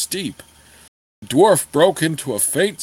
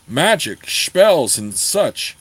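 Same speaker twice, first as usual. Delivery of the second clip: a bit cross; slower than usual. Acted. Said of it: "the dwarf said a bit crossly".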